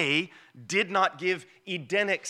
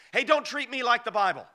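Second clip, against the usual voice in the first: mock apocrypha author; 4 semitones higher, 4 dB louder than usual. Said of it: "my translation of how they say it".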